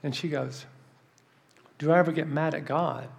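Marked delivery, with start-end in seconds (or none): 1.8-3.1 "Do I ever get mad at God?" echoed back pointedly; question thrown back. Retold or imitated. The woman answers his question with his own, thrown back. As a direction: turn the question back on the asker. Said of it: "Like that. She said it like that".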